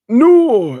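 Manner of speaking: high, loud, drawn-out "no"; mock alarmed cry. Friend on a prank call suddenly yelps in mock alarm. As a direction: imitate a sudden panicked yelp.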